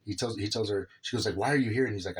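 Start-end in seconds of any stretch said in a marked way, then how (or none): 1.4-1.9 mock irritated mom, slightly raised voice; retold annoyed demand. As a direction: imitate her mild annoyance. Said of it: "on edge and irritated with him".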